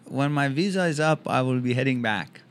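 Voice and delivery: lightly voiced Persian character; deadpan reply in a Persian accent; comic Persian accent, measured delivery. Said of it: "do a Persian character".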